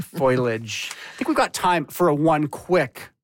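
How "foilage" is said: "Foliage" echoed as FOY-lij; two-syllable foy-lidge for "Foliage"; mispronounced foliage. Shown as a demonstration. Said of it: "my husband used to call".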